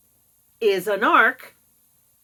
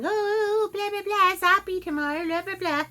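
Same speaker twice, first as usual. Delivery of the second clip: high, chirpy mock of my mother; higher put-on mother voice rattling on; mocking the mother's chatter, pitched up; imitating mother; 11 semitones higher than usual. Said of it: "my mother's saying".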